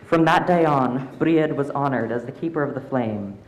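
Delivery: calm storytelling voice; story narration. A narrator's reading. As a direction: read it like a bedtime tale. Story narration read aloud.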